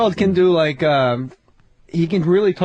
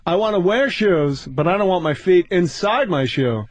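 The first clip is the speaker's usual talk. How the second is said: Seinfeld-style observational bit; 3 semitones lower than usual. Retold or imitated. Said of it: "do a little more".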